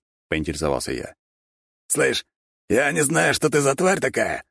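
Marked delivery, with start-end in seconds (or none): 1.9-4.4 wolf growling. A narrator's reading. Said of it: "прорычал волк".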